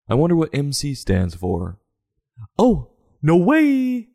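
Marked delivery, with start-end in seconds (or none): 2.6-4.1 high, slow, drawn-out "no way"; mock amazed. Real, not acted. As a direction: gasp in exaggerated disbelief. Reacting to giraffe's favorite food.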